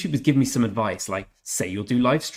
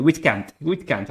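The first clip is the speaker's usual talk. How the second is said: mock South African accent, pitched up; 4 semitones higher, 4 dB louder, slower than usual. Streamer repeats a funny word for viewers, mock South African accent. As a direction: imitate a South African saying it. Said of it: "I can just imagine a South African accent".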